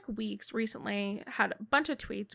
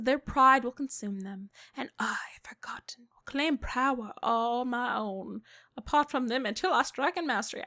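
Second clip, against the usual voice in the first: an odd, theatrical goddess read with a whispered middle; weird dramatic voice. Acted. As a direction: read the goddess's vow like a spooky proclamation. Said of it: "I don't know why I went weird there".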